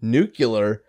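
"Nuclear" said NOO-kyuh-ler; variant pronunciation. Shown as a demonstration. Defending the variant "Nuclear" to friends, NOO-kyuh-ler. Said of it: "it's an acceptable pronunciation".

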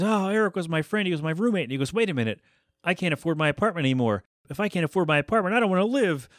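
rising mock despair over the rent; retelling a friend's comic meltdown, climbing in pitch; mock panicky roommate. Jack panics over losing roommate.

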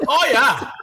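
high laughing "Oh, yeah" impression; high mock Tony while laughing; in his voice. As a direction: giggle it in Tony's voice. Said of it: "saying it in his voice".

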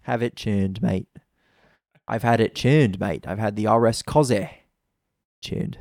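a bad mock British accent, tuned as chuned; a lightly voiced, bad British accent; terrible British accent. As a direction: ham up a British bloke, badly. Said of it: "That was a terrible accent".

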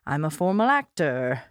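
lightly voiced old-timey actor; a hint of a grand stage actor; formal actor voice. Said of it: "a little bit of a formal actor".

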